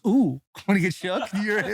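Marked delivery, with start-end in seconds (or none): 0.1-0.4 higher-pitched mimicked "ooh"; imitated "ooh". Mimicking a mic'd-up player getting shook, high ooh. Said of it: "he's mic'd up, he goes".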